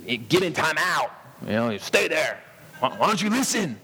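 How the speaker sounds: re-enacted exasperated scolding, rising on the last question; retold angry scolding. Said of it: "I raised my voice".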